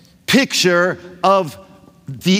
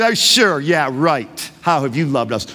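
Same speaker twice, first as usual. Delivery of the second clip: sarcastic; 4 semitones lower than usual. Acted. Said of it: "they're either being sarcastic".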